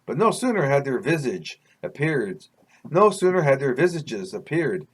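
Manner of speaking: measured, deliberate read-aloud storytelling; story narration. A narrator's reading. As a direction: read it like a memoir chapter. Reads own story aloud.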